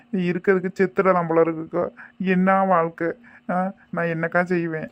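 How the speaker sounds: wailing complaint of an abandoned new mother; tearful despair. Acted. Abandoned new mother pleading to her visitor, tearful despair. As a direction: lament helplessly, as if weeping. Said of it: "இதுக்கு அழுது என்ன செய்ய போற".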